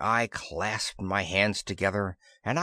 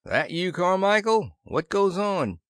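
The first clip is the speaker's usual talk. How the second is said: higher, louder call from afar; 7 semitones higher, 3 dB louder than usual. A narrator's reading. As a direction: call across the lawn. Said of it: "the post called".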